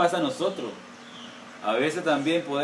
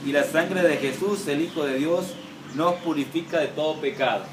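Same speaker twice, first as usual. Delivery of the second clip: scripture reading; 2 semitones higher than usual. Acted. Preacher reads the Bible passage to his church, proclaiming it.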